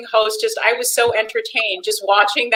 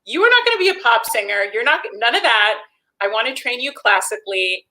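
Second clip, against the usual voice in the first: a hint of an emphatic teacher; teacher rejecting pop singing, emphatic; 3 semitones higher than usual. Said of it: "She goes".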